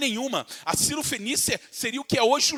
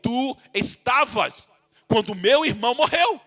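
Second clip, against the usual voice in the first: anguished questioning; 2 semitones higher, 3 dB louder than usual. Retold or imitated. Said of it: "Maria fala".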